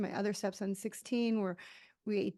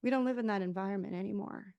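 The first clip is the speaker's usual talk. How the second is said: softer, soothing reassurance; gently calm a scared child; reassuring self-talk; 4 dB quieter than usual. Retold or imitated. Adult self soothing her inner child, softer and reassuring. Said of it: "to calm her down and be like".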